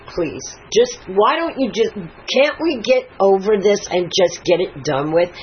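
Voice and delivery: mildly exasperated retold plea, rising in pitch; pleading. Daughter begging mom to get it over with, pleading. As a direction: imitate a daughter urging her mother to move on.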